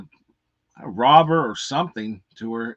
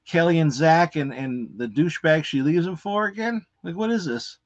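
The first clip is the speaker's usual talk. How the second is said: higher-pitched, imagined angry confrontation; indignant rant; 3 semitones higher than usual. Pretend. Reviewer imagining he's the betrayed Eric confronting the ex-girlfriend, indignant. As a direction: tell her off, incredulous and mildly heated. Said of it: "I'd be so mad".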